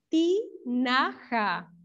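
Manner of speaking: "Tinaja" very slowly, in three separate syllables. Shown as a demonstration. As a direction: sound out "Tinaja" as ti... na... ja. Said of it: "las sílabas de tinaja". ("Tinaja" muy lento, sílaba por sílaba)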